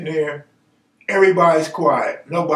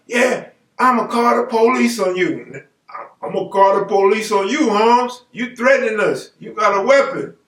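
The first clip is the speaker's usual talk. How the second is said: higher-pitched, indignant blaming; mock accusation; 5 semitones higher than usual. Arguing over who has a weapon, mock accusation. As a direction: accuse him in a raised voice. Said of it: "going back and forth blaming each other".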